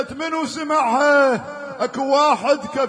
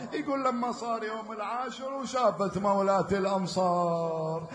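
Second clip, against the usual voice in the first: quieter, lower, grieving telling; subdued mourning narration; 5 semitones lower, 3 dB quieter than usual. Acted. Reciter recounting the infant's death, quietly grieving. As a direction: tell the infant's fate softly.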